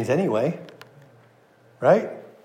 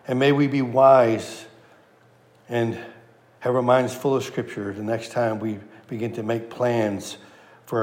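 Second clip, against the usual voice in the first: closing prayer; 3 semitones lower than usual. Acted. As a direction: pray humbly over the congregation.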